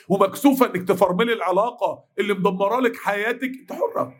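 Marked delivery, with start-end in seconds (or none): 3.6-4.1 whispered. Real, not acted. Whispered aside.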